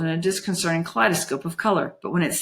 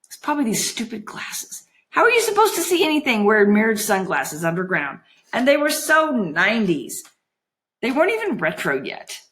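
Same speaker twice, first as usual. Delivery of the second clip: put-on higher-pitched huffy girl; Juliet, grumbling; 4 semitones higher than usual. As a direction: pettish complaint to herself.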